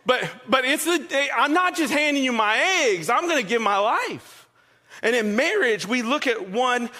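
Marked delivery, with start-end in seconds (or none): 0.0-4.5 indignant protest. Acted. Pig telling the chicken what he gives, mock indignant. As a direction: object emphatically, stumbling into it, lightly hammed-up.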